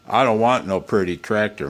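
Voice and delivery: loud, mock-gruff refrain; hammed-up quote. Man at his workbench quoting a stubborn farmer, loud and gruff. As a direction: bark it like a stubborn old farmer. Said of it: "mock cowboy song line repeated".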